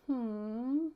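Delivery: long, grumpy mock "hmm"; frowning hum. Shown as a demonstration. Teacher leading children in a frown, glum hum. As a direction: hum it glumly through a pout. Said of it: "show me a frown like him".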